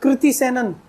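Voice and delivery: कृति as "kriti", with "kri"; correct pronunciation. Shown as a demonstration. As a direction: say कृति Sanon with a clear "kri". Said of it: "heroine के नाम से तो याद रख लो".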